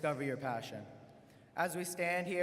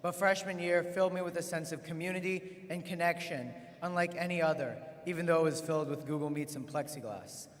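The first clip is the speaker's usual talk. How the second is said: podium speech; 3 dB louder than usual. Real, not acted. Opens a graduation address.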